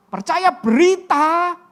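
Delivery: usual speaking voice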